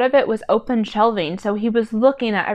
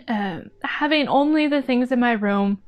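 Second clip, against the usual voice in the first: choked up; 2 semitones higher than usual. Real, not acted. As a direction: push the words out past a tight throat. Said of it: "brings tears to my eyes".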